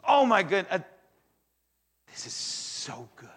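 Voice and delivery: loud gasping wonder at his work; amazed delight. Retold or imitated. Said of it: "And he goes".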